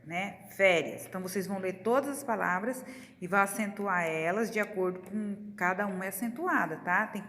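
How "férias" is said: "Férias" with a loud, punched fé; stress on first syllable. Shown as a demonstration. Teacher confirming the accented syllable for pupils, stress on the fé of "Férias". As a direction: hit the fé in "Férias". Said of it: "No fé".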